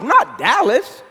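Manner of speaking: Not Dallas said slowly, word by word; slow it right down and land it; emphatic aside. Acted. Emphatic correction in speech.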